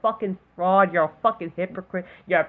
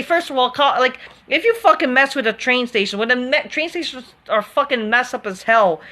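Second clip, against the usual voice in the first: heated, raised rant about the suspect; angry rant; 4 semitones higher than usual. Real, not acted. Ranting to viewers about the train station attacker, angrily. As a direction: vent the anger, pushing higher.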